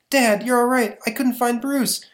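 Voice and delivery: put-on high anxious young woman; anxious daughter. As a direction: call out to your father in relief. Daughter runs to dad.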